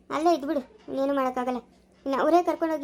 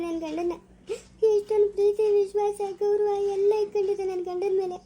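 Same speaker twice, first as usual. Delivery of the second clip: crying; 3 semitones higher than usual. Acted. Wife weeping over husband.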